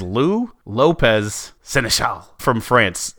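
slow, drawn-out announcement with a hint of French accent; French-flavoured name. Announcing the French star's name to Jared, in a slow, light French accent. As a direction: rolls the name out grandly with a light French touch. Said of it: "I don't know how to do a French accent".

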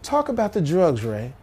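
lightly voiced TV hostess; Dinah Shore. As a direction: pitch it up a little, genteel. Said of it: "Dinah Shore goes".

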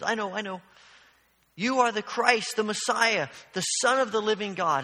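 mildly keen student blurting the answer; eager answer. Retold or imitated. Peter answers Jesus's question with eager, mild excitement. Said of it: "Peter raises his hand and says".

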